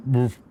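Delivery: short, muffled imitation woof; internal bark. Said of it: "like, a really internal".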